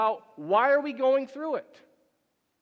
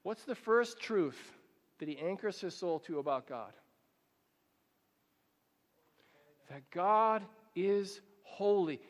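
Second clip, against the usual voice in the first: hushed for attention; 3 semitones lower, 7 dB quieter than usual. Shown as a demonstration. Preacher hushing to grab the congregation's attention, quiet. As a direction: drop to a near-hush to pull them in. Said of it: "do something absurd to get your attention".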